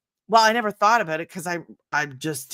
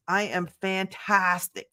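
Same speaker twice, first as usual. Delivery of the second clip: slow savoring; 4 dB quieter than usual. Real, not acted. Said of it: "Does anybody say that besides me?".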